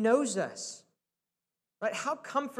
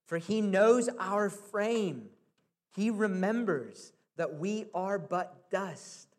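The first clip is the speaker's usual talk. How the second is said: scripture reading; 3 semitones lower than usual. Acted. Reads psalm verse slowly.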